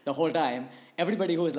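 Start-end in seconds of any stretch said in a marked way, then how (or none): 0.0-0.1 Indian accent. Shown as a demonstration. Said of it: "turn on my proper Indian accent".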